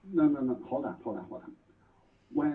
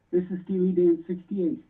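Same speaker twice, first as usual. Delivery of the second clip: louder and clearer, speaking up; 4 semitones higher, 5 dB louder than usual. Real, not acted. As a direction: repeat it louder for the caller. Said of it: "Can you speak up?".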